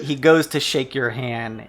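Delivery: ordinary talk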